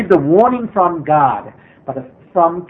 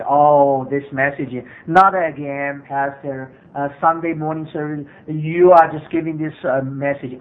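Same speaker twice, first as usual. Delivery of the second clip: bored churchgoer complaint; 4 semitones lower than usual. Retold or imitated. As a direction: imitate a jaded listener sighing "not again". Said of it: "very proud attitude".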